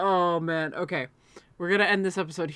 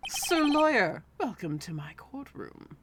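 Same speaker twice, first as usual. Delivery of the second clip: gloating villain; 3 semitones higher, slower than usual. Acted. Voicing a gloating character.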